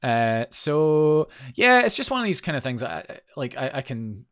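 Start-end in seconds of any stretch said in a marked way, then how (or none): 0.0-2.8 hoarse. Real, not acted. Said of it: "I've got a real frog in my throat".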